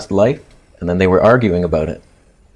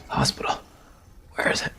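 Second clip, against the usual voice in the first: weak plea; 11 dB quieter than usual. Retold or imitated. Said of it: "and I was like".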